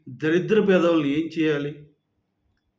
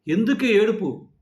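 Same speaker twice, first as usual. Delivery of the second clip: angry outburst; 5 semitones higher than usual. Real, not acted. Vlogger confronting fake reviewers, slow indignant demand. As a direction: pitch jumps higher, slow, demanding why.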